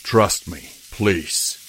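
calm. Acted. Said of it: "said calmly".

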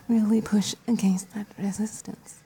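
breathy teasing whisper; seductive whisper. Acted. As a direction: whisper it close and playful.

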